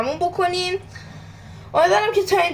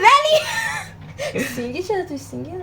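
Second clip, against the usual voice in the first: laughing while talking; slower than usual. Real, not acted. Laughs at single joke.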